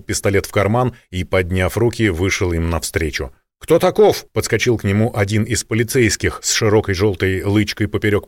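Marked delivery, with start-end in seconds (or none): 3.6-4.3 high loud police challenge; sharp challenge. A narrator's reading. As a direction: bark it like a cop at a stranger. Полицейский окликает Николая. (резкий окрик полицейского)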